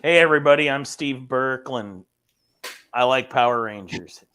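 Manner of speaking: half-hearted impression, barely changed from own voice; Steve Berkland. Shown as a demonstration. Panelist answering a chat request, badly faked impression. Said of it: "do a Burke accent".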